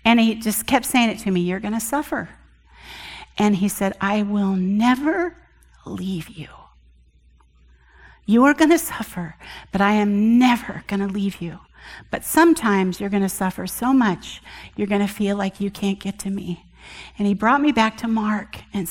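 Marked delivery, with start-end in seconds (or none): 1.4-2.3 soft, tender repeat of the warning; gently, softer; a soft, understated loving voice; lovingly. Retold or imitated. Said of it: "and very lovingly". 4.0-16.6 soft, loving reassurance as God; a lightly voiced tender God; lovingly. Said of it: "and very lovingly".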